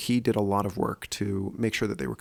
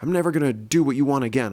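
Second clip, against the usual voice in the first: imitating angry son; 4 semitones higher than usual. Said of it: "He said".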